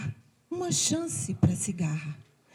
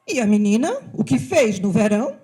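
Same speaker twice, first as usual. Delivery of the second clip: stern ant; 4 dB louder, faster than usual. Acted. Ant questions the cicada sternly.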